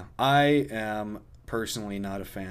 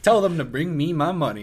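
louder demanding boss voice; greedy boss voice; 5 semitones higher, 5 dB louder than usual. Pretend. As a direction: bark it like a money-hungry boss. Playing a greedy store boss.

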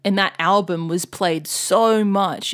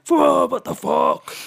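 high, slow, stunned whoa; mock shocked whoa; 7 semitones higher, slower than usual. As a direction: act out a stunned metalhead. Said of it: "the metal community is like".

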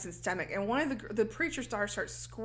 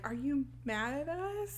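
soft, slow, higher-pitched plea; a small, lightly voiced innocent boy; timid question; 5 semitones higher, 4 dB quieter, slower than usual. Captive boy asks Ma if she's mad, timid question.

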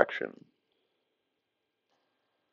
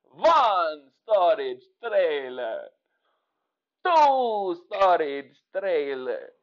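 a hint of the Count counting. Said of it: "impression of Sesame Street".

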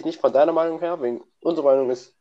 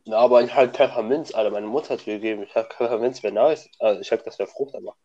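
chewing while talking. Real, not acted. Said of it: "Ich esse grad Mentos".

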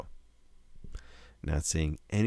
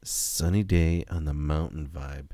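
commercial voice; 2 semitones lower than usual. Acted. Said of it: "you make it sound even better with that commercial voice".

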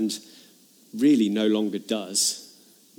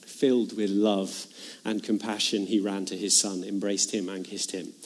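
tender reading; 3 semitones lower, 4 dB quieter than usual. Acted. Reading the tender scripture line.

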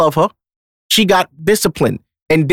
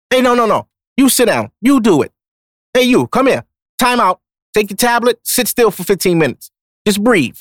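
bossy home coach; 4 semitones higher than usual. Retold or imitated. Dad ordering the kids around at home, firm coach commands. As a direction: run the house like a coach calling plays. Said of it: "I'm gonna have to coach my own home".

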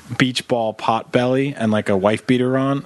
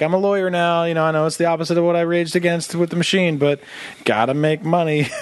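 sheepish ex-punk; 5 semitones higher than usual. Retold or imitated. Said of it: "or, like".

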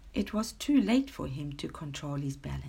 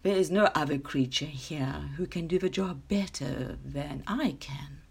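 understated, self-assured boast; lightly voiced proud lion; 2 semitones lower, 3 dB quieter than usual. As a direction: boast with calm, mild pride. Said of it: "he said proudly".

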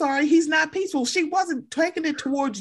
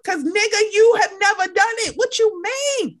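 heated rant; 6 semitones higher, 4 dB louder than usual. Real, not acted. Ranting at Lawrence.

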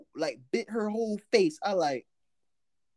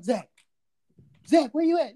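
calling on walkie; 5 semitones higher, 5 dB louder than usual. Retold or imitated. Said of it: "They go on the walkie-talkie".

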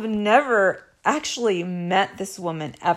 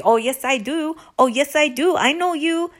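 higher, insistent mock tirade; going off; 7 semitones higher, 4 dB louder than usual. Imitating the other woman going off on her, heated. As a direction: climb higher with each insistence. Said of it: "going off on me".

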